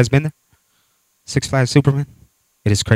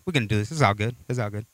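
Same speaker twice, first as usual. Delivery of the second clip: mock bravado; 7 semitones lower, 13 dB quieter, much faster than usual. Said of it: "my friend were like".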